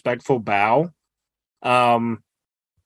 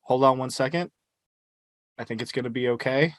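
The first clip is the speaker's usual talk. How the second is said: whisper; 6 dB quieter than usual. Acted. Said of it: "I just whisper in common".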